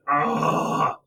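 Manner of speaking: exasperated, drawn-out "ah"; worked-up growl of annoyance; frustrated groan. Real, not acted. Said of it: "I was so mad".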